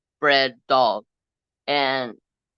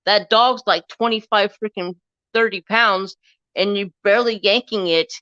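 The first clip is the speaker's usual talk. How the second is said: loud, higher, heated scolding; angry telling-off; 5 semitones higher, 3 dB louder than usual. Retold or imitated. Speaker retells scolding the dog owner, angry and loud. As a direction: chew him out over the dog. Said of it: "And I was like".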